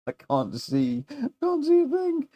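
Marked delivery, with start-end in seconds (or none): 1.4-2.3 squeaky, much higher giggling complaint; laughing high. Real, not acted. Laughing to tears.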